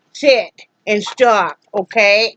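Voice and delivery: each word drawn out slowly, stern; slow firm command. Real, not acted. Owner ordering her dog to sit, slow and stern. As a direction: lay down the law, slowly.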